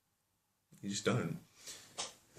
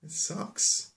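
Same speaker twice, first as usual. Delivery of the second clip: lightly voiced, higher complaining bear; a hint of a little bear's complaint, pitched up; Baby Bear; 5 semitones higher than usual. Baby Bear upset over eaten porridge, mildly high complaint. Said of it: "then Baby Bear's like".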